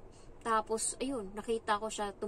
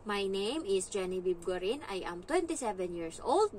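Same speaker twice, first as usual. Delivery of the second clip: serious. Shown as a demonstration.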